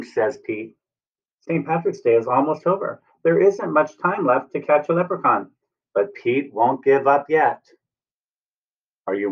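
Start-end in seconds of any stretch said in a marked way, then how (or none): 1.4-7.7 put-on lilting rhyme for young children; storybook read-aloud. A narrator's reading. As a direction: read the verse brightly to little ones.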